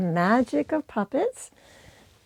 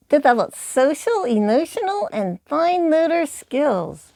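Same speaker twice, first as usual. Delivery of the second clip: a touch higher, eager puppet listing skills; lightly voiced puppet; 5 semitones higher than usual. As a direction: puppet chiming in brightly. Periwinkle lists skills.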